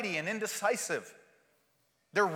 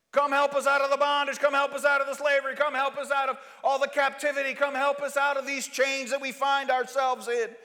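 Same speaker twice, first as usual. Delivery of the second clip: pleading cry; 5 semitones higher, 4 dB louder than usual. Acted. People crying out for rescue.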